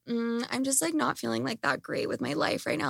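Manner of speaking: sulky and deflated; mock sad. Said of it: "I'm like".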